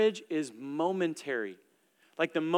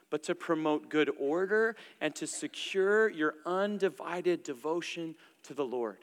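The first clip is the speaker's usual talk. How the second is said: measured, slightly raised reading of the passage; scripture reading; 2 semitones higher than usual. Acted. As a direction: read the verses out deliberately to the congregation. Reads scripture passage aloud.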